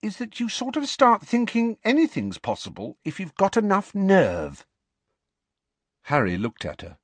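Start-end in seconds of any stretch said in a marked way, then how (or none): 0.0-4.6 higher, musing, slowing at the end; thoughtful. Acted. Ginny muses to Harry about Fred and George, thoughtful and slowing. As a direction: let the idea dawn on her as she talks. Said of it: "said Ginny thoughtfully".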